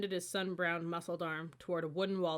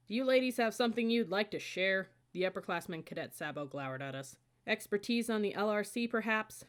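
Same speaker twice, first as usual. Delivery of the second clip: raised, sharp upperclassman challenge; stern public rebuke; 4 semitones higher, 4 dB louder than usual. Acted. Upperclassman rebuking two whispering cadets, loud and stern. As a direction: call them out in front of the squad. Officer scolding chattering cadets.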